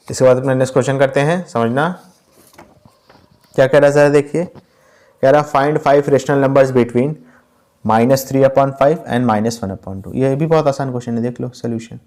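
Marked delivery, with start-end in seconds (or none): 5.5-10.1 reads the question word by word, very slowly; slow dictation. Shown as a demonstration. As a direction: spell out the problem slowly for the class to copy. Teacher reads the question aloud. (सवाल धीरे-धीरे बोलकर लिखवाना)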